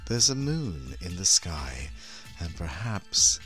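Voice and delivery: sultry horror hostess, slow and low; femme fatale. Acted. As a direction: purr it like a vampy hostess. Hostess opening the show.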